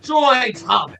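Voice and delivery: high, loud trailer announcer punch. Shown as a demonstration. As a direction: sell it like a blockbuster trailer. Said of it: "can you do, like, a good trailer voice?".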